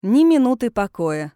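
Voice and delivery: резко и громко, отрывисто; бросить фразу громко и коротко; коротко бросил. A narrator's reading. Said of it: "коротко бросил Линк". (отрывистая громкая реплика)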